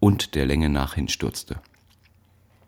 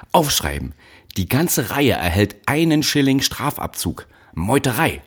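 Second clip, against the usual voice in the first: high-pitched, enraged overseer; raised voice, landing hard on MEUTEREI; furious order; 8 semitones higher, 4 dB louder than usual. A narrator's reading. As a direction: order the punishment in outrage. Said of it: "Sein Gesicht war blaurot vor Wut".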